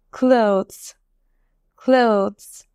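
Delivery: careful, isolated model of ক্লোথস, ending in a z sound; pronunciation demo. Shown as a demonstration. Teacher showing learners how to pronounce clothes, pronunciation demo. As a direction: say ক্লোথস as one syllable, "klohz". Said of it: "আমি উচ্চারণ কিরকম করেছি".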